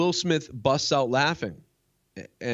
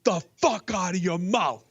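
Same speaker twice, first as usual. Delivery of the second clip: slow, higher menacing Will Smith warning, spelled out; imitating Will Smith; 7 semitones higher, slower than usual. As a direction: drag each word out like a threat. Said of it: "Will Smith was like".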